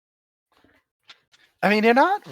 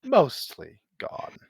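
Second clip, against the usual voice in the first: lightly voiced ancient elemental; 3 semitones lower than usual. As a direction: weigh each word like an ancient being. GM holds Ancient One voice.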